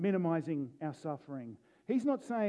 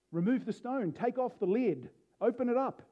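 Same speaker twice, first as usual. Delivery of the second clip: Remove the stone called out higher, building; bold command; 5 semitones higher than usual. Shown as a demonstration. Jesus ordering the tomb opened, rising bold command. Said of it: "a very controversial thing to say at a graveside".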